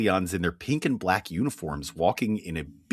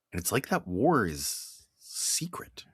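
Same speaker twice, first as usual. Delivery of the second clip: hushed conspiratorial whisper; 5 dB quieter than usual. Pretend. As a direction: lean in and whisper it like a secret. Secret war aside.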